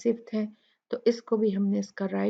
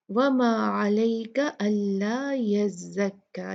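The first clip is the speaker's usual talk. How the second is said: slow, measured recitation; Quran recitation; slower than usual. Acted. Teacher reciting the verse to students, slow. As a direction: recite the verse slowly and evenly.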